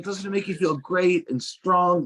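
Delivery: mom's odd friend, mildly high and drawn out; eccentric lady. Retold or imitated. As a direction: coo it slowly like an eccentric fan. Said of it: "She was like".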